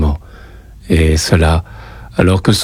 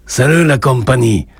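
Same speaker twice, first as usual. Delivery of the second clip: higher greeting with a hint of Spanish accent; lightly Spanish-accented hello; 5 semitones higher than usual. A narrator's reading. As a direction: call out a greeting, Spanish accent barely hidden. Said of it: "avec un accent qui dissimulait mal ses origines espagnoles".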